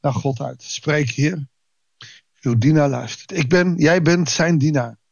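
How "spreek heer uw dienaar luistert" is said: as a prayer. Shown as a demonstration. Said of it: "een gebed geworden wat ik regelmatig naar God uit".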